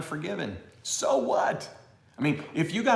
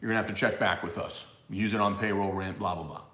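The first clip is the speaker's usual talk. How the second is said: distinguished banker; 4 semitones lower, faster than usual. Retold or imitated. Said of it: "They may be very distinguished and be like".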